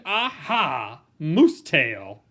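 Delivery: bright loud "aha!" of discovery; eureka. Acted. Moose discovering his tail idea, excited and loud. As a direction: announce the brainwave proudly.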